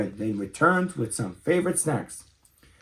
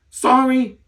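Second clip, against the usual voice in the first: chittering; 11 semitones higher, 6 dB louder than usual. Acted. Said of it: "chittered the little skunk".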